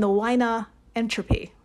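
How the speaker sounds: Wiener said with a German V sound, "vainer", in a mock German accent; a playful, overdone German accent on "Wiener entropy". Shown as a demonstration. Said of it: "German accent anyone's ever done".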